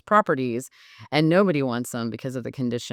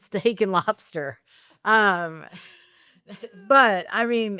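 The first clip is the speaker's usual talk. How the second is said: kind gentle laugh; 6 semitones higher, 4 dB louder, slower than usual. Real, not acted. Joking about seminar perks.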